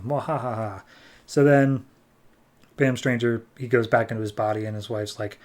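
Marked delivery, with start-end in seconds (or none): 0.0-0.8 mock evil laugh, "mwahaha"; hammed-up villainous chuckle; villain cackle. Villain's laugh ends a threat.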